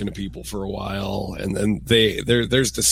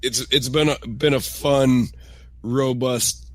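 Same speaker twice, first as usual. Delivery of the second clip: phlegmy sick voice; croaky, chesty cold voice; rattly chesty voice. Real, not acted. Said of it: "phlegmy voice episode".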